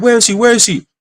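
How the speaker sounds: high, urgent imitation of distraught searching; retold frantic cry. Ex searching the house for him, imitated frantic cry. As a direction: repeat it as a mock tearful call. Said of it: "she's screaming, like, crying".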